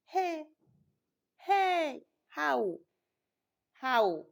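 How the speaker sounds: retold angry outburst, loud and high; furious. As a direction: relive the fury of finding it. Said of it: "I was so furious".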